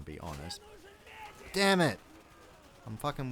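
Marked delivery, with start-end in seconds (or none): 1.5-2.0 loud, higher frustrated curse; angry outburst. Real, not acted. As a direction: snap out in sudden anger. Player gets wounded in game.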